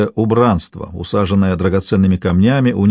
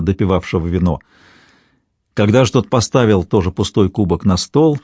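ordinary delivery

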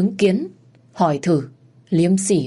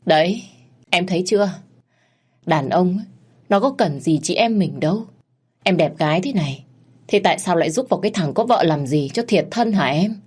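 1 mocking. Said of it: "mà lên tiếng mỉa mai".

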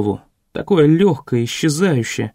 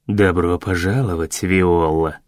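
mayor's greeting; 12 semitones lower, slower than usual. A narrator's reading. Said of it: "сказал мэр".

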